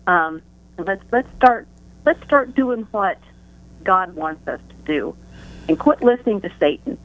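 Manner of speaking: breathless, pushing through the words; catching breath between phrases; short of breath. Real, not acted. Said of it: "I'm short of breath today".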